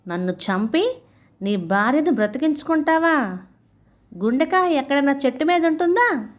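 mildly indignant telling-off; scornful rebuke. Acted. Monkey to crocodile who betrayed their friendship, scornful rebuke. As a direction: rebuke the traitor, lifting each challenge.

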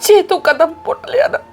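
a mother begging through tears; tearful pleading. Acted. Mother pleads tearfully with daughter not to leave home. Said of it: "ਤੁਸੀਂ ਹੁਣ ਨਾ please ਰੋਵੋ ਨਾ".

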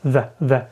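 "the" barely heard, a short unstressed schwa "thuh"; pron: weak "thuh". Shown as a demonstration. Teacher demonstrates the weak "the" to students. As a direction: let "the" slip by as a quick transitional "thuh". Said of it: "а потім кажемо the".

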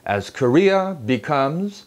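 "As Korea becomes" slowly, smoothly, with clear intonation, ending in a break; deliberate newsreader model of "As Korea becomes"; slow, melodic "As Korea becomes" as one chunk; lively intonation. Shown as a demonstration. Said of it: "인토네이션을 살려야 돼요".

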